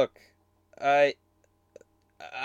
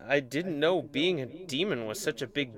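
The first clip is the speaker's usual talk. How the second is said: hurt murmur; 2 semitones lower, 8 dB quieter than usual. Acted. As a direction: say it to yourself, wounded. Demon hurt, talking to himself.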